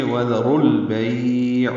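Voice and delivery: "وذر البیع" very slowly with ra joined into lam; ra with zabar. Shown as a demonstration. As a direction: join the ra smoothly to al-bay. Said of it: "اب را پر پڑھیں گے". (را پر زبر کے ساتھ آہستہ)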